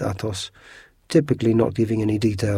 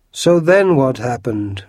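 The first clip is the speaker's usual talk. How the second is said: roar; 4 semitones higher, 8 dB louder, slower than usual. A narrator's reading. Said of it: "roared Porthos".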